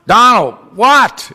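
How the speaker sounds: slow, drawn-out reluctant "what"; a put-upon morning whine; groggy exasperation. Retold or imitated. Newcomer calls sponsor each morning, slow and put-upon.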